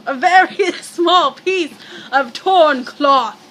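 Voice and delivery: reading out loud with a laugh caught in it. Shown as a demonstration. Reader straining to read loudly, a laugh slipping in. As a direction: push the line out loud, laughing. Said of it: "it's hard to talk this loud".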